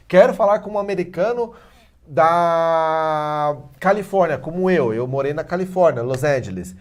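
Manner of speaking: lightly voiced starry-eyed student; mock eager student. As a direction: ham up the dreamy student who wants an American accent. Student quoted wanting Californian accent.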